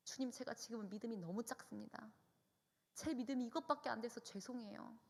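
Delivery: retold, apologetic petition; ashamed prayer. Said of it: "너무 창피하고 부끄러워서".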